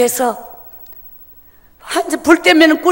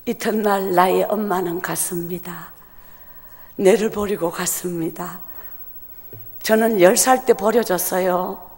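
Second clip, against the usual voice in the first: low, much softer, heavy; hushed grief; 7 semitones lower, 8 dB quieter than usual. Real, not acted. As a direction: let the words sink. Confessing abandonment, voice sinks. (낮고 가라앉은 목소리)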